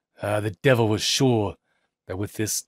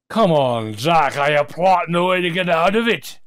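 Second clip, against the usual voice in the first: friends teasing; 7 semitones higher, 6 dB louder than usual. A narrator's reading. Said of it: "they said to him".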